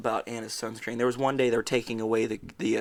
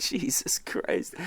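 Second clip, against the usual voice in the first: whisper; 5 semitones higher, 4 dB quieter, much slower than usual. Real, not acted. Shocked reaction to a creepy quote.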